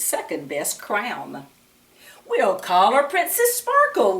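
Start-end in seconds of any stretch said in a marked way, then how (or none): 2.3-4.2 cheerful king, a bit louder; laughing king. A narrator's reading. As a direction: announce the name with a happy laugh. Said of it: "laughed the king".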